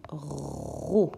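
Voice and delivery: "ro" with a long drawn-out r; syllabe isolée. Shown as a demonstration. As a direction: hold the r of "ro" before opening the vowel. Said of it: "nous allons chercher la syllabe". (« ro » avec le r bien prolongé)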